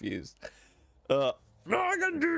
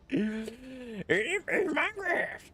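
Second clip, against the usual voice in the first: Yoda voice; 5 semitones higher than usual. Retold or imitated. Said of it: "You sound like Yoda".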